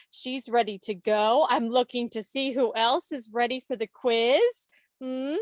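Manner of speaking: mock elementary teacher addressing children. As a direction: playfully talk to the group like a class of kids. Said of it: "You can tell I work in an elementary school".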